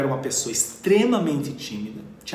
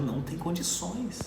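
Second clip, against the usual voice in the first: exasperated complaint; 4 semitones higher than usual. Retold or imitated.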